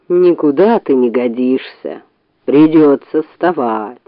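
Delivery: low, slow bear voice; grumble, reluctantly getting up; grumbling bear. A narrator's reading.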